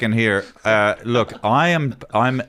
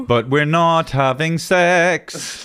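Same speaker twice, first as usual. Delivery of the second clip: laughing; 3 semitones higher, slower than usual. Real, not acted. Laughing confession about date.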